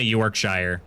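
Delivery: "Yorkshire" with a full "shire" rhyming with fire; American pronunciation. Shown as a demonstration. Streamer teasing UK viewers, "Yorkshire" said as York-shy-er. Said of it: "the American way".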